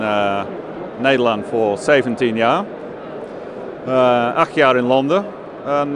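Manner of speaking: Dutch with an English accent. Real, not acted. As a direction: Londoner speaking careful Dutch. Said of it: "Een Engelsman die Nederlands spreekt". (Nederlands met Engels accent)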